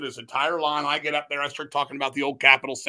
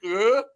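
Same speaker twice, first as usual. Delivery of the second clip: higher, louder imitated "uh"; startled-sounding grunt; 7 semitones higher, 5 dB louder than usual. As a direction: mimic a creepy wordless reaction, pitched up. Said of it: "He just was like".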